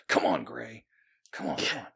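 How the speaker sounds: low, half-voiced nervous pep talk; lightly acted anxious urging to oneself; nervous self-talk. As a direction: imitate someone nervously psyching himself up under the breath. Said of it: "He's all nervous".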